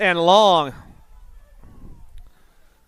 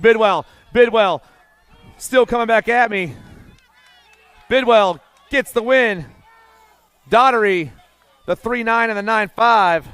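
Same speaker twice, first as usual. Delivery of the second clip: excited finish call. Real, not acted. Race finish called out.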